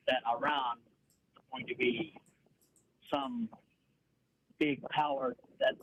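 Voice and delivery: muffled, like talking underwater. Real, not acted. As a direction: voice smothered as if under water. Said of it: "it sounds like you're underwater".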